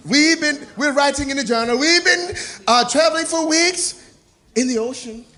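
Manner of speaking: stately explorer reading his log; Columbus journal voice. Acted. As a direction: dictate a ship's journal. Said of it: "he writing there".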